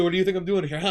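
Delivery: loud, high hammed-up outburst; mock yelling. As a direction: rant indignantly, playing it for laughs. Co-host joins in acting out outbursts.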